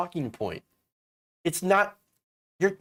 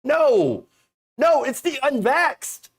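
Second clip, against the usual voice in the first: mock Santa; 9 semitones higher, 4 dB louder than usual. Santa voice continues, denying.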